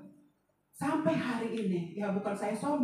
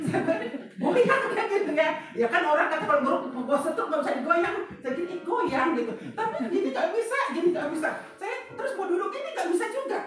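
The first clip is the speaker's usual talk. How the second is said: higher and louder, laughing through the story; 6 semitones higher, 4 dB louder than usual. Real, not acted. Testimony to congregation, laughing through words. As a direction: laugh at her own helplessness as she tells it. Laughing retelling of her illness.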